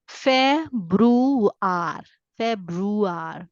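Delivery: Februar said the German way, a rolled off end. Shown as a demonstration. Teacher modeling German February. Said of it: "so I read it as".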